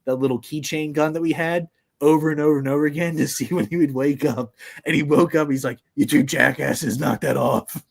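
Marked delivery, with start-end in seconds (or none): 5.9-7.8 grumpy scolding. Retold or imitated. Woken dad scolds kids.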